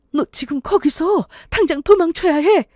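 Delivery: high-pitched, urgent warning. Acted. Mother telling daughter to flee the house, urgent. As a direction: press every phrase as a desperate order. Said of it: "엄마의 목소리가 얼마나 다급했는지".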